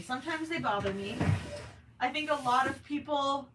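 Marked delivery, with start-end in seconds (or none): 0.0-1.2 flat, plain statement of fact; matter-of-fact. Shown as a demonstration. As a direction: say it matter-of-factly. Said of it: "I can say that matter-of-factly".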